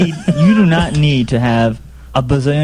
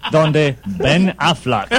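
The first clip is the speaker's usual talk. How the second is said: slow, drawn-out imitation of a TV announcer; mock title announcer; 3 dB quieter, much slower than usual. Co-host joining the Spanish TV joke, slow announcer voice. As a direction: intone it slowly, joining the announcer bit. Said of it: "another guy to read the title".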